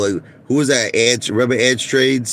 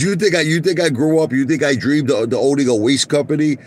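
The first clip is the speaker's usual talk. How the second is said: higher, scoffing mock boss; lightly voiced sneering executive; mocking CEO voice; 6 semitones higher than usual. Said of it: "He goes".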